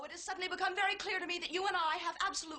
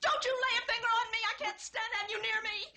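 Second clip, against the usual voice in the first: higher, agitated, almost frantic; pushing him away in a rush; hysterical; 5 semitones higher than usual. Acted. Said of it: "You're hysterical".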